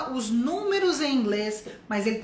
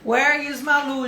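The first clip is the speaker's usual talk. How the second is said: slow, stressed where; slow model question; 3 semitones higher, 4 dB louder, slower than usual. Shown as a demonstration. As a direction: lean on where, slowly. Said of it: "Vamos lá, mais uma".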